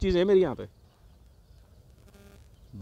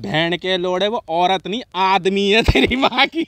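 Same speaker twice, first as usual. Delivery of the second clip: emphatic reveal; slower than usual. Retold or imitated. Punchline first told, building.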